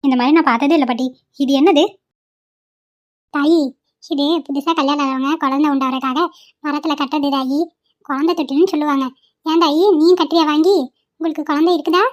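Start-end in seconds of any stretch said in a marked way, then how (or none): 3.3-12.0 put-on lightly raised old woman's voice, coaxing; a village granny gently urging a purchase. Old granny coaxing the young wife to tie a cradle, kindly.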